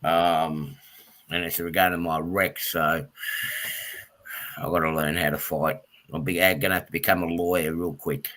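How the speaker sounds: low, subdued and unhappy; upset. Real, not acted. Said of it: "I'm not too happy at the moment".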